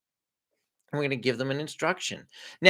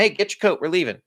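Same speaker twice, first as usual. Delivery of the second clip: higher, louder call in passing; offhand passing command; 3 semitones higher, 4 dB louder than usual. Acted. Parent walking by telling the kid, offhand command. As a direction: toss out a quick order. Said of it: "just walking by and telling".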